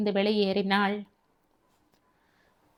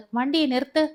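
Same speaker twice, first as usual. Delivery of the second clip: shouting; 5 semitones higher, faster than usual. Acted. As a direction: yell at the rider to stop. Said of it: "என்று கத்தினான்".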